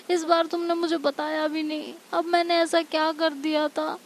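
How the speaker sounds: hurt, pleading outburst; acted distressed yelling. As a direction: cry out as if abandoned. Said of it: "और चिल्ला रही होती है".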